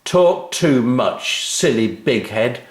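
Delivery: slow, loud, taunting jeer; mock her for talking too much; a mild mock taunt from a schoolboy; cruel shout. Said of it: "shouted one of the boys cruelly".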